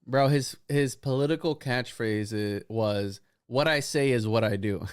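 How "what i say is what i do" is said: laughing. Real, not acted. Quoting catchphrase while laughing.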